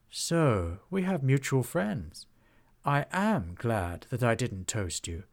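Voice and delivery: slow, grand dragon voice, admiring; stately dragon. Acted. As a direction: speak like an ancient, gracious dragon. Dragon to Trollbelcher.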